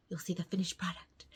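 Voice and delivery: soft whisper. Real, not acted. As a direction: whisper it as an aside. Soft aside.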